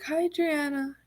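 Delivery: high, soft sing-out greeting; fake nice. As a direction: greet them with put-on niceness. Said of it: "they would act nice to me".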